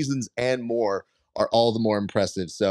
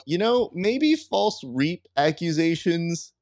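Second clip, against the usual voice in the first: mock wise voice; 10 semitones higher, slower than usual. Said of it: "where you go".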